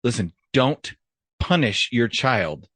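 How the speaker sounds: slow, deliberate delivery with pauses; mock-serious advice. Comic giving parents a tip, slow and mock-serious. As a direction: space it out like solemn counsel.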